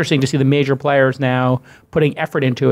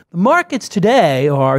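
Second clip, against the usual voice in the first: radio host inflection; 3 semitones higher, slower than usual. Retold or imitated. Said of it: "he's got a big inflection going on".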